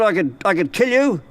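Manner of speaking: a lightly voiced menacing devil. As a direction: threaten him as the devil. Devil threatening.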